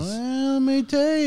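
high eerie storyteller voice; spooky storyteller voice. Acted. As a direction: tease the scary story like a campfire teller. Dramatic ghost story opener.

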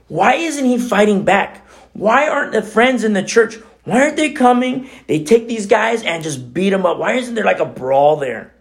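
high, heated mock outrage; imitating an indignant reader; retold indignation. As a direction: replay your own angry frustration. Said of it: "I was so mad".

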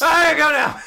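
high loud squeaky run-away line; panicked squeak. Acted. Girl fleeing from the boy, panicked high squeak. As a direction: squeak it and flee. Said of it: "She re-screams and runs away".

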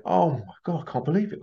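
a touch of disbelieving joy; amazed thanks. Retold or imitated. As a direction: mimic a stunned grateful man. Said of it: "He went".

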